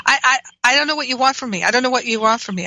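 imitating a huffy, defensive brother. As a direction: rattle it off like a fed-up brother. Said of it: "my brother got mad at me".

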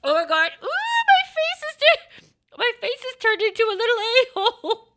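high, puckered sour reaction. Real, not acted. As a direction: face scrunched from sourness.

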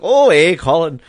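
imitating Mandy Bujold. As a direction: toss off a breezy mock answer. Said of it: "I guess that's how she sounds".

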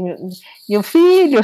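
imitating a tearful call to her son; crying to son. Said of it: "chorando no telefone". (chorando alto ao telefone)

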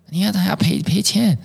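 lightly voiced father fretting about losing money; imitating dad's alarm. Father objects to writing class.

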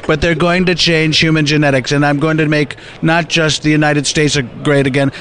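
lightly voiced Trump, boastful rally tone; Donald Trump. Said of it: "let him think I'm Donald Trump".

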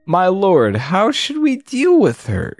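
goblin servant. Acted. Voices goblin servant in game dialogue.

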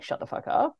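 hissed whisper. Retold or imitated. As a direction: whisper it harshly. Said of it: "everyone's being told".

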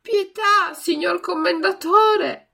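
high, loud, slow plea; pleading. A narrator's reading. Pinocchio begs the puppeteer again, pleading. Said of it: "con voce supplichevole".

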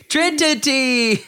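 high, drawn-out cheer; excited cheer. Real, not acted. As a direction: stretch the name out, thrilled. Cheering for a contestant.

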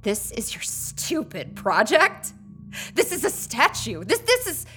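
high, soft, breathless shock; slow, quiet, stunned; stunned disbelief. Acted. Kendra gaping at the statue, softly stunned.

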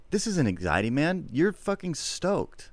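high-pitched, acted thrill; swooping high, stretched-out excitement; excited. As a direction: sell how stoked you are. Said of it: "like, excited".

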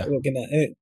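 casual London English accent. Shown as a demonstration. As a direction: toss it off in London slang. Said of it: "I could do that".

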